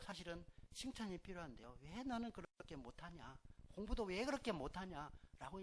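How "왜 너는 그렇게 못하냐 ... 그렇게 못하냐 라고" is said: mock scolding. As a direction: nag the child in a mock rebuke. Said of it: "이렇게 막 질책하는데". (시험 못 본 아이를 나무라는 부모)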